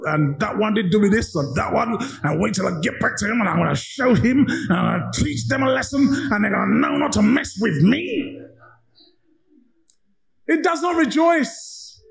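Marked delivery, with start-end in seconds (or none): 0.1-8.4 lightly voiced petty grudge-holder. Preacher imitating a grudge-holder plotting revenge, lightly voiced. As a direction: mutter like someone nursing old wrongs.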